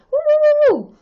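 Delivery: usual speaking voice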